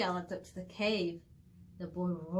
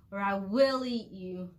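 bellowing; 4 dB louder than usual. Acted. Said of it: "he bellowed".

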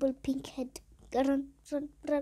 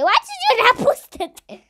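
mock complaint; 10 semitones higher, 9 dB louder than usual. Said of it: "I was about to say".

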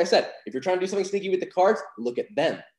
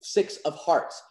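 confident; 2 semitones higher than usual. Shown as a demonstration. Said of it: "I was very confident when I was saying".

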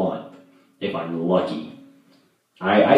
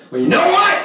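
squeaky retort; 6 dB louder, faster than usual. Real, not acted. Retort to Mason, high squeak.

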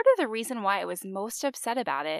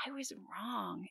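whispered, slow and much softer; 9 dB quieter, slower than usual. Real, not acted. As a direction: let the admission fall to a whisper. Admits her mistake, repeated twice.

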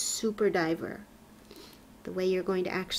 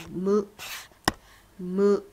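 mock cow moo; 4 dB louder than usual. Shown as a demonstration. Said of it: "says the cow".

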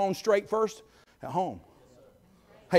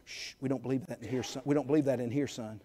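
hushed scolding; 8 semitones lower, 9 dB quieter than usual. Retold or imitated. Parents hushing the son.

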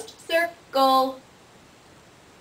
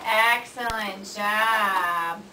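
drawn-out praise; 2 semitones lower, much slower than usual. Real, not acted. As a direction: stretch out "excellent job" slowly. Praising a child's word.

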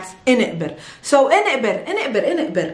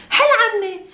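laughing demo; 10 semitones higher, much faster than usual. Shown as a demonstration. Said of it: "for example".

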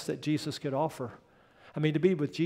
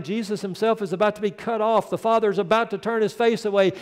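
ordinary talk

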